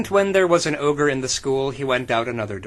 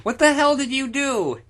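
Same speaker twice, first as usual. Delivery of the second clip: high, hammed-up angry question; mock demand; 11 semitones higher, 3 dB louder than usual. Chris yelling at Stephanie in a hammed-up angry voice. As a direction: demand it like a cartoon hothead. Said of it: "he demanded".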